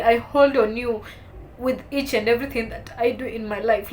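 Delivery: pleading reproach. Retold or imitated. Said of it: "I'm like".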